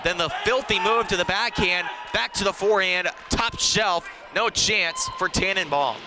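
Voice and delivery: excited replay call. Real, not acted. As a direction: still riding the goal, calling it hot. Replaying the goal, still thrilled.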